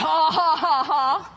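even, forced ha-ha-ha; faked laugh. Shown as a demonstration. Preacher demonstrating faking a laugh, forced laugh. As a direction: drop in a deliberately fake laugh. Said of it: "Faking a laugh like I just did".

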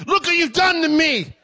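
high, half-laughing accusation; high accusing wail. Retold or imitated. Wife in labour blaming husband, high half-laughing wail.

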